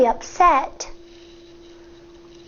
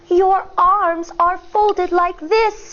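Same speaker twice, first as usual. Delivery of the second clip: put-on gently calm a tense child; soothing. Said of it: "in a soothing voice".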